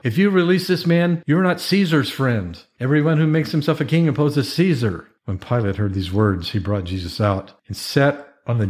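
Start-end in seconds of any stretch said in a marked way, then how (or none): 0.0-5.0 insistent high-pitched protest; narrated outcry, moderately raised; crying out. A narrator's reading. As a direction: call it out high to press the ruler. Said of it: "But the Jews cried out".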